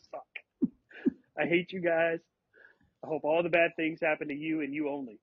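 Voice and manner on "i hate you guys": said out loud at full volume; louder. Real, not acted. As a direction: speak up so they hear it. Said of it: "That's better".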